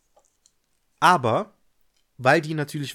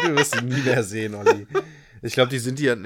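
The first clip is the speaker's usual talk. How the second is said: laughing; 3 dB louder than usual. Real, not acted. Teasing about lost documents.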